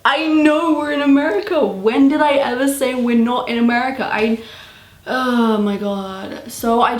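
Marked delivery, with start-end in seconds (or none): 0.1-4.1 higher-pitched, baffled protest; acted-out bewildered complaint; exasperated confusion. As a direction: retort in disbelief at being accused. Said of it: "I'm just so confused".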